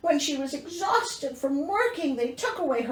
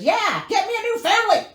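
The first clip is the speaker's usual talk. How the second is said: sarcastic Cinderella; 9 semitones higher, 7 dB louder, faster than usual. Acted. Sarcastic rewrite of Cinderella's line.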